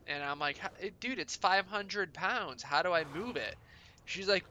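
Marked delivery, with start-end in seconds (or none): 0.6-3.6 higher-pitched, mildly exasperated retold objection; incredulous protest. Teenage dishwasher objects to his boss, incredulous. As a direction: protest the impossible order, pitch raised. Teen self protesting impossible order.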